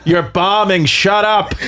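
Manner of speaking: lightly voiced heckler yelling from the back; mock heckle, punch each command; hint of an old-school comic shouting someone down; Bobby Kelly. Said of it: "you'll hear Bobby go".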